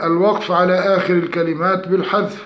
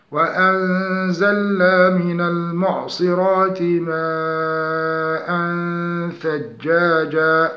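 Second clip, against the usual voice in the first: slow melodic tajweed chant; Quranic recitation; much slower than usual. Shown as a demonstration. Tajweed teacher reciting an example verse slowly.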